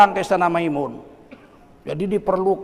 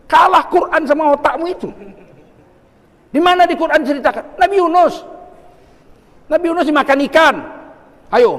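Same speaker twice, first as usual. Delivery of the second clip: raised, challenging preacher's voice; forceful preaching; 4 semitones higher, 5 dB louder than usual. Real, not acted. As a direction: press the congregation for an answer. (ceramah lantang menantang jemaah)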